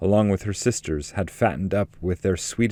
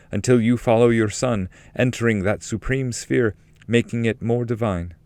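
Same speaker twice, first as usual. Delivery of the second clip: higher jubilant heavenly voice; angelic love; 3 semitones higher than usual. Acted. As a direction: ring out as a circling angel singing praise.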